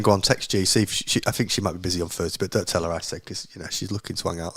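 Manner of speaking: dropping to a low secretive murmur; soft scheming voice, fast at the start; a quiet scheming whisper-like aside; hushed conspiratorial aside. Retold or imitated. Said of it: "texting a friend and saying".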